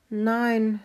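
high, lightly voiced hen; hen's no. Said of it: "sagte Steffi".

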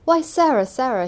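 loud, high-pitched surprise; startled outburst, leaping up in pitch; astonished exclamation. A narrator's reading. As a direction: exclaim her name in disbelief. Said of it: "he exclaimed".

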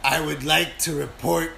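lightly voiced raspy old lady; a hint of an old smoker lady; tiny old lady voice. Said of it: "a tiny old lady voice who's been smoking".

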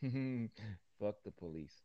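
laughing slowly; slow laugh through the words. Real, not acted. Repeats quote laughing slowly.

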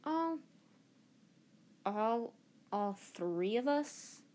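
put-on scoffing girl. Hermione scoffs at Harry.

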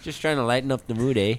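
light mock Canadian accent; jokey Canadian accent with a tag "eh". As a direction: tack on a Canadian "eh?". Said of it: "I don't know where the Canadian accent came from".

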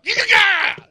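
high, loud shouted Giga. Retold or imitated. Host yelling at coworkers from his truck, loud high shout. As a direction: bark it out at the parking lot. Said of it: "I give 'em the look".

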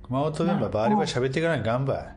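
fast lively Kumamoto dialect. Acted. Host urges co-host to speak Kumamoto dialect, in it. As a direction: rattle it off in broad Kumamoto dialect.

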